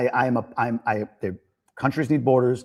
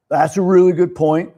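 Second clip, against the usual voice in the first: agreeable; 5 semitones higher, 8 dB louder than usual. Retold or imitated. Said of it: "I'm that guy, like".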